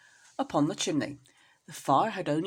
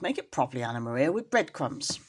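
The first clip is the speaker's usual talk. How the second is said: Samuel Whiskers; 4 semitones lower than usual. Acted. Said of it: "said Samuel Whiskers".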